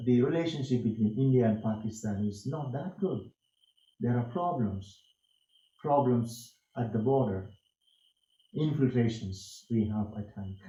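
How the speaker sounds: measured delivery, a full stop and pause after "good", "problems", "border"; falling close on "problems" and "border", then a clear pause; short sentences with pauses. Shown as a demonstration. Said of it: "such type of simple sentences, stopping there, stopping here".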